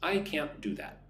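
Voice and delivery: careful model sentence with pauses between phrases; phrase by phrase, unhurried, for repeating; nice and slow. Shown as a demonstration. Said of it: "nice and slow".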